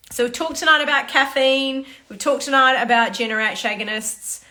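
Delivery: tired voice starting to go; losing voice. Real, not acted. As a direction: voice giving out after talking. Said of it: "I think I'm losing my voice".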